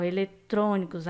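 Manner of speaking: "eletrônicos" with a closed o on "trô"; closed vowel. Shown as a demonstration. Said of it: "é um som fechado".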